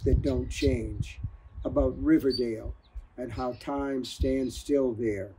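steady, measured audiobook reading; calm storyteller narrating a crime novel; story narration. A narrator's reading. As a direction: read the novel aloud to listeners. Author reads novel aloud.

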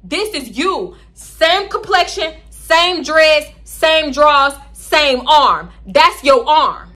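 slow, loud, emphatic accusation; loud deliberate list of proof; accusing. Retold or imitated. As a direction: lay out each point, slow and pointed. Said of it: "I'm like".

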